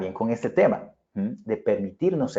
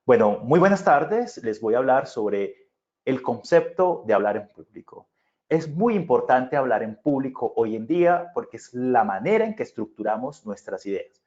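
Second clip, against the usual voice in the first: stiff formal consultant opening, slightly raised pitch on buenas tardes; 2 semitones higher than usual. Shown as a demonstration. Speaker shows students a cold corporate opening, stiff. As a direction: greet them like a distant, rehearsed consultant. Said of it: "si yo llegara con otro perfil comunicativo".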